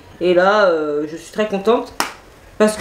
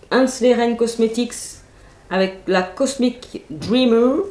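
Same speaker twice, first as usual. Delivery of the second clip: slow, careful brand names in a mock English accent; put-on English accent; 2 semitones higher, slower than usual. Reading the brand names to viewers in a mild English accent. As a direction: savour each English word like an announcer, lightly accented. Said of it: "Quel accent".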